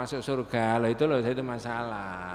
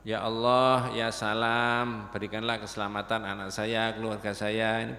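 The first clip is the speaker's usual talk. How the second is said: prayer invocation; 4 semitones lower than usual. Shown as a demonstration.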